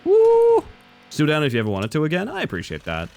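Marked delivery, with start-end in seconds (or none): 0.0-0.6 very high, loud whoop of joy; loud cheer. Real, not acted. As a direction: let out a victory whoop. Celebrating in the game.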